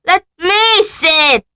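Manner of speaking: very high, loud, slow whine; Dudley demanding. Acted. Spoiled son demanding to see the letter. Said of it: "demanded Dudley".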